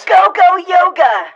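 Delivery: high, loud shouted war cry; battle cry. Acted. Intruder launching a yoga attack, loud battle cry. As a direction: leap in with a hammed-up war cry.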